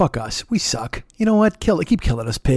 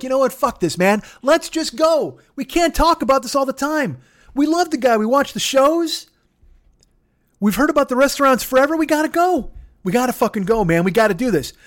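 much higher excited sheep voice; Charlie the Sheep; 10 semitones higher than usual. Pretend. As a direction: squeak it out as an eager sheep rallying the herd. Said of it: "Charlie the Sheep is like".

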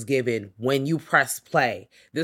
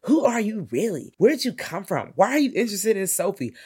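higher accusing questions; higher, pointed questions; mock interrogation; 7 semitones higher than usual. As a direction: grill the newcomer. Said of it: "they're all just like".

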